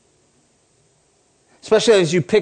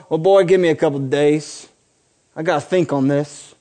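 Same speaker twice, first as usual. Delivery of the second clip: lightly voiced Southern guy; a hint of Southern accent on an imagined father. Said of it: "he became like this Southern guy".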